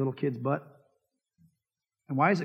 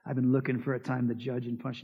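mock giddy glee; 6 semitones lower, 4 dB quieter than usual. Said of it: "He's not giddy going".

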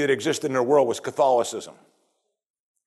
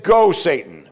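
a firm loud command on Go; 5 dB louder, slower than usual. Retold or imitated. Preacher quoting Jesus sending Satan away, firm command. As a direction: send the devil away with authority. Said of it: "He said".

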